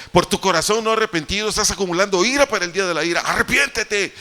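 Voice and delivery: fast, high, thundering rebuke; God shouting. Retold or imitated. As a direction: boom the warning down from heaven. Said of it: "Me gritó y me dijo".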